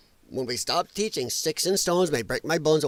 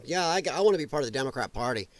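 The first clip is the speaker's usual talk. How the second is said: sarcastic quote; 3 semitones lower, 4 dB quieter than usual. Retold or imitated. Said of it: "that young person's gonna go".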